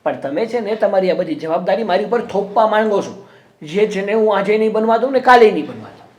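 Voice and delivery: loud defiant outburst at his father; furious son yelling; angry shout. Acted. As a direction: shout it back, refusing the burden. Son defies father in argument.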